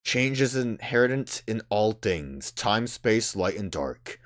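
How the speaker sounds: grave, deliberate prophetic reading; solemn oracle, cryptic. Acted. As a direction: deliver it like ancient wisdom. Voices solemn game oracle.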